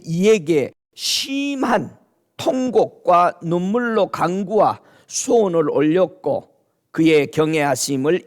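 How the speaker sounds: slow, deliberate verse reading; measured, emphatic Bible recitation; scripture reading. Acted. 제가 읽습니다.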